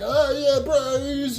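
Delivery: high-pitched mock cheer for the lads; excited cheering. Looking down at the pile of people, excited cheering. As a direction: whoop along, voice pitched well up.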